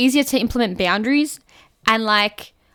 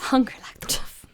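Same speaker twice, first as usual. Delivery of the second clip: whispered; 5 dB quieter than usual. Acted. Quick song line aside.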